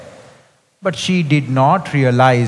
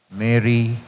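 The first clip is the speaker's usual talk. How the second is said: soft, lower, gentle calling of the name; tenderly; 5 semitones lower, 3 dB quieter than usual. Retold or imitated. Jesus calling Mary by name, tender and soft. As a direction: say her name gently, like a caress. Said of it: "he calls her tenderly".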